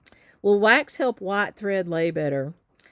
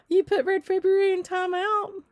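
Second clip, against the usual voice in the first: mock shock; 13 semitones higher, 3 dB louder than usual. Real, not acted. Teasing a viewer about her project.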